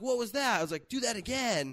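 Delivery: high, amazed mock questioning; retold amazement. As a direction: reenact being astonished, pitch up. Retold amazement at karate move.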